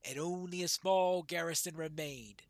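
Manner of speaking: measured storytelling, firming at the end; lightly voiced veteran dwarf. Old dwarf recalls the last moot, lightly solemn. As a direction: recount old battles in a lightly acted voice.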